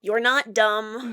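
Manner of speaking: slow, a touch of despair; gently insist, lightly despairing. Acted. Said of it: "He says despairingly".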